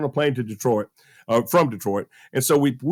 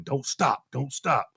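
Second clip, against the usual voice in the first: silent willing; 4 semitones lower, 6 dB quieter, slower than usual. Retold or imitated. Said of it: "I'm willing them in my mind".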